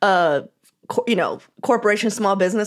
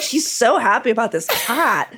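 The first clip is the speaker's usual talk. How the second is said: laughing; 3 semitones higher than usual. Retold or imitated. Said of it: "Everyone's like".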